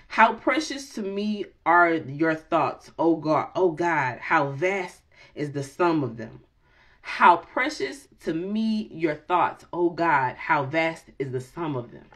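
slow, reverent scripture reading; measured devotional recitation; psalm reading. Acted. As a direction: read it like a prayer.

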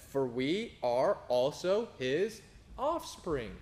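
measured, solemn Bible reading with slow stretches; scripture reading. Acted. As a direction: read the verses like a pulpit reading. Reads scripture aloud at length.

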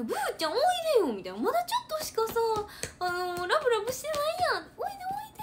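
high, sweet coaxing of a sulking dog. Retold or imitated. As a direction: coax the dog back, pitched high. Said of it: "って言っても". (すねた犬を高い声でなだめる)

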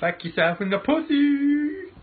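high, loud yelled insult; shouting. Acted. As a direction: scream it at the haters. Yelling insult at haters.

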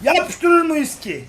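very slow, high and loud; long thrilled howl of hope; drawn-out excitement. Real, not acted. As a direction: stretch every syllable in suspense. Waiting for a big win.

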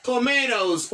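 tomatoes, said slowly and clearly with a tapped t; model pronunciation. Shown as a demonstration. Teacher modelling the English word tomatoes. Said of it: "Ou e kòman pwononse".

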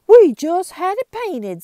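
loud, high aggrieved blacksmith; rough grunting blacksmith. Acted. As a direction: complain loudly about the paint. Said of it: "said the blacksmith".

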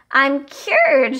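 loud, high joyful shout. A narrator's reading. Camila shouts as her body returns to normal, joyful and loud. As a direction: burst out with joy. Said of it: "she shouted".

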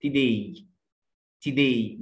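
today as "tih-DAY", falling and lightly touched first syllable; American schwa. Shown as a demonstration. Teacher repeats for learners, reduced vowel. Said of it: "في الأمريكان أكسنت بنقول".

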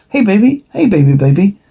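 put-on high-pitched coo to a baby; playful baby-talk lilt; coaxing a baby.

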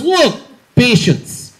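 put-on comic Russian doctor accent; blunt list in a put-on Russian accent. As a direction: count off like a mock Russian doctor. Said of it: "the weird Russian doctor I had".

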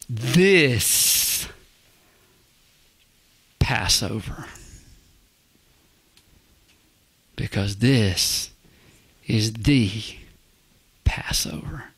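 "Passover" breathed as a whisper; hushed reveal. Real, not acted. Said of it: "dramatic hushed reveal".

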